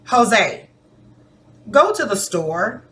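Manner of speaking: gentle request with questioning lift; polite request. Shown as a demonstration. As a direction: ask nicely, ending on a rise. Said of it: "sounds like I'm asking you politely".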